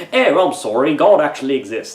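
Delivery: badly faked British accent sliding into Australian; hammed-up, wobbly Anglo-Australian accent; botched British accent turned Australian. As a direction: aim for British, land on Australian. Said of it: "That's Australian".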